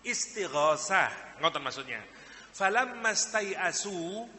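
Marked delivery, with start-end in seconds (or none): 2.5-4.3 slow, drawn-out recitation of "Falamma stai'asu" rising at the end; Quranic recitation. Shown as a demonstration. Preacher quotes the verse again, drawn out and rising. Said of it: "ketika mereka setelah berusaha".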